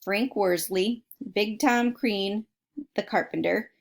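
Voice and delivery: put-on reading a book aloud to kids; steady storybook reading voice; story narration. A narrator's reading. Reads a book aloud to listeners.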